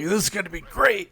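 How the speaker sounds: high, eager mock cheer; over-the-top enthusiasm. Captain to newcomer, mock gushing excitement. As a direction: imitate the gushing team captain. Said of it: "super enthusiastic and almost over the top".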